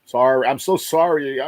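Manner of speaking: imitating an upset well-wisher; imitated tearful sympathy. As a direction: gush mock condolences, drawing out the apology. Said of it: "They cry".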